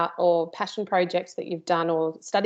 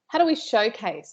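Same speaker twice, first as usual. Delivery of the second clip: put-on American accent; 3 semitones higher than usual. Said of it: "I have to use an American accent when I do that".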